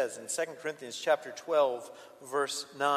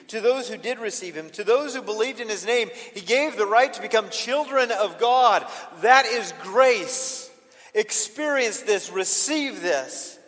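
louder, higher preaching voice; emphatic preaching; 7 semitones higher, 9 dB louder than usual. Acted. Preacher urging the congregation to receive grace, emphatic preaching. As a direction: drive each phrase home, slowing at the end. Preacher rises to full force.

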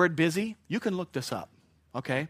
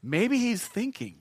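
slow, drawn-out teasing; slow mock taunt; 6 semitones higher, slower than usual. Preacher acting Elijah teasing the crowd, slow and mocking. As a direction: savor the insult slowly. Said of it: "He says".

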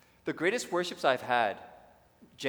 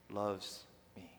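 usual speaking voice

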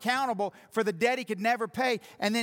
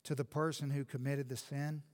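much softer and lower, gentle and earnest; quiet pastoral tone; 5 semitones lower, 7 dB quieter than usual. Acted. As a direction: speak softly to the hurting listener.

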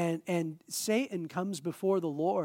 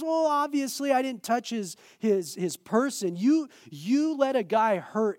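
high, indignant comeback; Satan; 7 semitones higher, 6 dB louder than usual. Acted. Accuser arguing with God over Job's person, high loud protest. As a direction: protest loudly, pitched up. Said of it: "And he goes".

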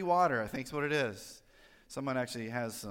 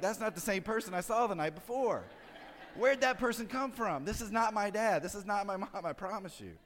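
higher-pitched, bewildered protest, softening at the end; mock a child's alarmed disbelief; scared kids' disbelief; 6 semitones higher than usual. Kids whispering about their changed parent, disbelieving. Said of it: "they're scared of you".

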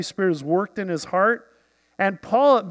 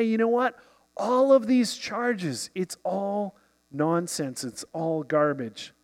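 calm. Retold or imitated. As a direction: say it evenly, unbothered. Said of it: "he was able to very calmly say".

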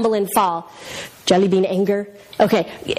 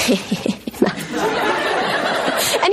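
high, breath-only imitated giggle; retold burst of giggles; child starting to laugh; 6 semitones higher than usual. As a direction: imitate a boy breaking into laughter. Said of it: "he just started laughing".

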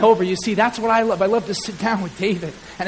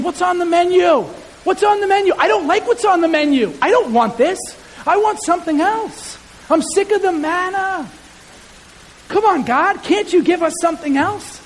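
whining complaint; 8 semitones higher than usual. Acted. Preacher voicing ungrateful Israelites, mock whine. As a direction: complain like a spoiled diner. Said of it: "They're saying".

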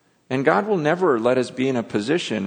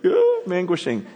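high-pitched hammed-up wail; mock anguish; 8 semitones higher, 3 dB louder than usual. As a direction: imitate a sudden cry of anguish, pitched way up. Acting out his answered prayer.

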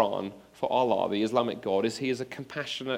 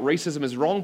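mild, raised-voice retold shout; 3 semitones higher, 5 dB louder than usual. Student shouts out at racial abuse, mildly retold shout. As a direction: report a shout, only slightly louder. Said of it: "you shout out".

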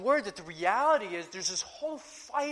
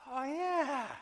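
higher pitched, suddenly seeing it; awed realization; 9 semitones higher than usual. Retold or imitated. Servant finally seeing the heavenly army, awed surprise. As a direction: let the wonder break through.

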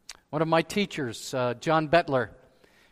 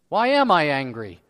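louder, indignant demand; acted angry self-question; 6 dB louder than usual. Preacher acting out his own anger, indignant. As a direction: throw the question out crossly.

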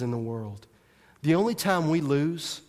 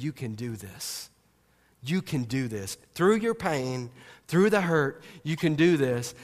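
gentle encouragement; 2 semitones lower than usual. Retold or imitated. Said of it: "exhorts you and says".

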